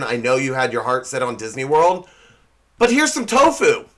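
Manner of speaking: hint of a parent breaking bad news; lightly voiced parent. Parent telling children about a letdown, lightly acted. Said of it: "like telling your children".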